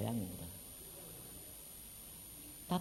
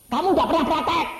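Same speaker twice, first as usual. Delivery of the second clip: high, loud incredulous question; surprised question; 14 semitones higher, 11 dB louder than usual. Retold or imitated. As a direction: ask in disbelief. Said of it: "Roh Kudus bilang gini". (pertanyaan heran, tinggi dan keras)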